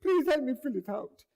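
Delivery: high, pleading please, please; begging for help, voice up high; desperate pleading. Retold or imitated. Refugee begs the clerk for help, high pleading. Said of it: "I said".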